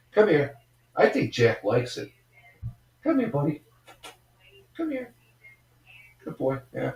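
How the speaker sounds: high, coaxing pet voice; calling the dog. Real, not acted. Man calling his dog Jack over, high coaxing pet voice. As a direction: coax the dog over in a sweet sing-song.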